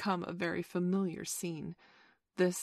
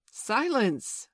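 loud, high call for order; commanding cry; 7 semitones higher, 7 dB louder than usual. A narrator's reading. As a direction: cry out sharply to hush everyone. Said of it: "cried Wendy".

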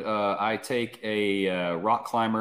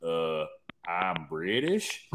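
mock British accent; 5 semitones lower, 7 dB quieter, much slower than usual. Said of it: "do a British accent".

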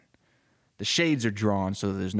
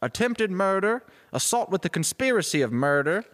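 booming judge; 10 semitones higher than usual. Acted. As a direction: ring out the charges from the bench. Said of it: "hearing the judge's voice".

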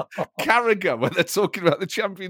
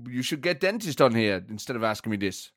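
mildly angry German manager; irritated impression of a football boss; Thomas Frank; 4 semitones lower than usual. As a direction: push back in a comic German accent. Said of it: "Oh, you're angry".

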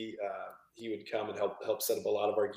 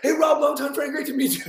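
much higher and louder, a hammed-up happy hello; cheery greeting; 9 dB louder than usual. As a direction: mock-jolly welcome from a swollen-eyed friend. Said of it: "and he's like".

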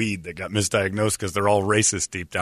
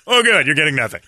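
mock cheerful doctor; 4 semitones higher, 4 dB louder than usual. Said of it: "Like a doctor's gonna go".

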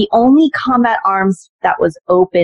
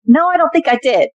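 stunned; 9 semitones higher than usual. Retold or imitated. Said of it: "And I said".

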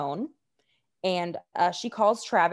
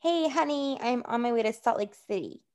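imitating Jody's phone call; 4 semitones higher than usual. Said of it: "She was like".

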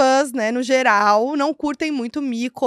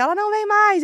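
retold yell; 10 semitones higher than usual. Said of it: "passa com o carro e grita".

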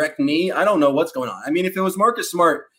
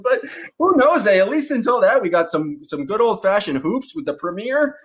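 a hint of a bad Canadian accent, higher on the first lines; a jokey Canadian accent sprinkled with "eh"; hammed-up Canadian accent; 4 semitones higher than usual. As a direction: playfully put on a corny Canadian accent. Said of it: "going back into my horrible Canadian accent".

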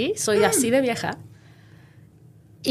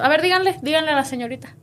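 sargento; 4 semitones higher than usual. Retold or imitated. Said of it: "estaba parada atrás de nosotros como sargento".

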